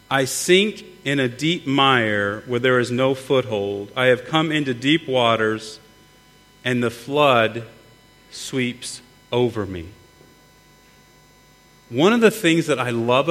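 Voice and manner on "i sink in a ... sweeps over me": scripture reading. Acted. Reads scripture aloud.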